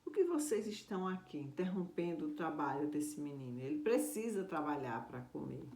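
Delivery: mildly angry demand to the strangers; angry uncle. Acted. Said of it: "chegou muito bravo". (tio bravo, um pouco mais alto)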